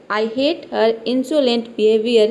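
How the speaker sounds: each word stretched out and spaced; unhurried classroom reading; slow model sentence. Shown as a demonstration. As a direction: read it slowly for beginners. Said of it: "teacher models the English sentence".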